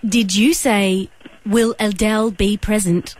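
automated operator voice. Pretend. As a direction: read it like a phone menu. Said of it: "automated operator voice".

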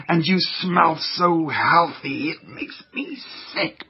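lightly voiced nasty germ, sniffing and gloating; sneering germ villain. Jerry the Germ gloats to viewers, a lightly voiced sneering germ. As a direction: gloat like a villain who hates clean kids.

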